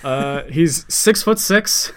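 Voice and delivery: put-on German-accented character description. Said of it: "that's, like, a good German accent".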